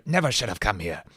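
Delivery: lightly voiced game enemy; a quick hint of a game character's threat; Morrowind. Gamer showing an impression they can do, game enemy voice. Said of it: "I could do Morrowind".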